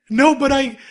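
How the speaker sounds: high, loud sputtered protest; hammed-up tearful objection, cut off; mock wailing. Retelling Megu answering his friends, mock wailing. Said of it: "he's sobbing".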